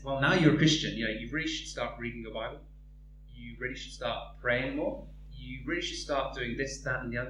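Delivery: low nagging enemy. Acted. The enemy nags a new Christian, low and quick.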